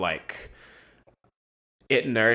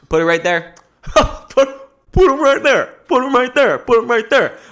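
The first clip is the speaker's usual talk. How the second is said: building from raised voice to high, loud yelling; hyped-up shouting; 14 semitones higher, 8 dB louder than usual. Pretend. Vlogger goofing on his own phrase, escalating silly shouts. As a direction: belt it out higher and louder, clowning.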